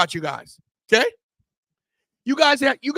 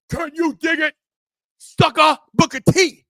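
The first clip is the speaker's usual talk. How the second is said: catchphrase shout; 7 semitones higher, 4 dB louder than usual. Acted.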